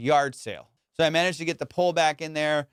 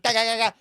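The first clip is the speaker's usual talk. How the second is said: imitated kicking noise; 6 semitones higher, faster than usual. Imitating his frantic kicking.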